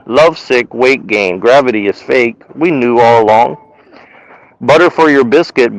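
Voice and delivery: slow, measured poem recital; poem reading. Acted. Reading his own stoned poem to a friend, slow recital. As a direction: read each line like a poem, pausing between.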